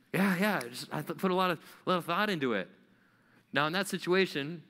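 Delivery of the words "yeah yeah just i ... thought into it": sheepish defence. Retold or imitated. Defensive reply about outfit.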